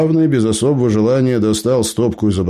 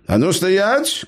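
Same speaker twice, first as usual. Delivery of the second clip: a pitched-up mock yell at the bandits; mild shout; 12 semitones higher, slower than usual. A narrator's reading. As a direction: gnome stopping the advancing trio, mild high shout. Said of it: "крикнул бородатый".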